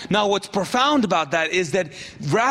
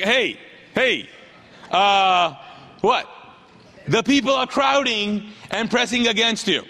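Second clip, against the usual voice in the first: pointed stating of the obvious; Peter, mildly sarcastic. Acted. Disciple telling Jesus the obvious, mildly sarcastic. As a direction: explain it with a touch of sarcasm. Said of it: "a little bit of sarcasm".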